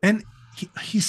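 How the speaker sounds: breathy aside, almost no voice; 悄悄吐槽一句，几乎不出声; whisper. Real, not acted.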